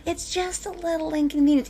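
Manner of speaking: light, airy mocking quote; dismissive mimicry. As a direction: brush it off as trivial, mimicking the naysayers. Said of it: "all those people out there that are like".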